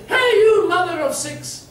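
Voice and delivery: mock husband hollering across the room; calling over a crowd. Husband hailing his wife over the crowd, mock calling out. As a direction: call out to the wife over there, half-shouted. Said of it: "over the crowd".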